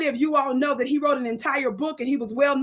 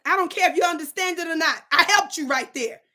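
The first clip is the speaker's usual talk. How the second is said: normal talking voice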